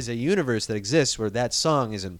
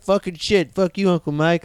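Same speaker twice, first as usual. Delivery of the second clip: lightly imitated cursing kid, pitched up; mock foul-mouthed nephew; 4 semitones higher than usual. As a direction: imitate a little kid cussing out his uncle. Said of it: "he curses like a sailor".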